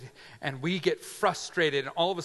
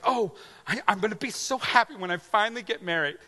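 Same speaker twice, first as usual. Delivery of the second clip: hopeful dreamer; 4 semitones higher, faster than usual. Retold or imitated. Imagined naive hopeful self.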